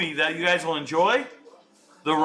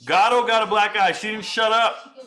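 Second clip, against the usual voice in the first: louder, higher burst of glee; excited outburst; 6 semitones higher, 5 dB louder than usual. Real, not acted. Host reacting to the fighter's black eye, excited and loud. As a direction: crow about the black eye.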